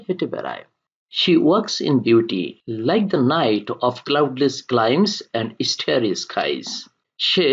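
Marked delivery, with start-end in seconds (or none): 1.2-6.7 slow, measured reading of verse; poem recitation. Acted. Teacher reads Byron's poem to students, slow recitation. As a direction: read the line out slowly, lower.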